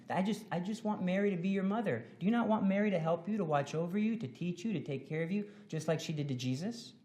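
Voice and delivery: hushed reassuring appeal; gentle coaxing. Pretend. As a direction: coax the child tenderly. Gently persuading a child.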